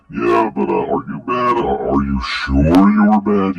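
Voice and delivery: high, pestering imitation; mock insistent. Commentator imitating repetitive texting, mock insistent. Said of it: "being very repetitive".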